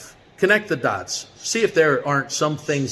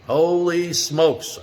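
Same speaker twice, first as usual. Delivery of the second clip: slow stunned gasp of surprise; 5 semitones higher, much slower than usual. Retold or imitated. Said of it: "I said".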